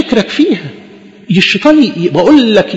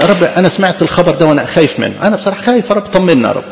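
model prayer. Shown as a demonstration. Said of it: "انت اقف قدام ربنا".

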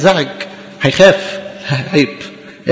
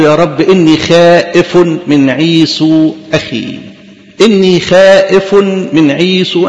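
slow, drawn-out plea of a frightened man; fearful prayer; 3 semitones lower, slower than usual. Acted. Preacher voices Jacob praying to God, slow and fearful. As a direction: beg God slowly, as Jacob afraid of his brother.

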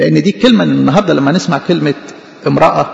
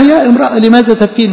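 higher, pressing call of يا امرأة with a stress on يا; urgent angel's call; 5 semitones higher than usual. Shown as a demonstration. Angel pressing the weeping woman, raised and urgent. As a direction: press the question home with a raised voice. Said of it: "بيقول لها".

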